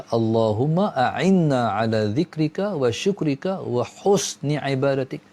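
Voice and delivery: slow, measured Arabic supplication; slow prayer recitation. Shown as a demonstration. Preacher showing the congregation how to recite the prayer. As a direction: intone the prayer slowly and carefully. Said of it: "Jadi kita baca".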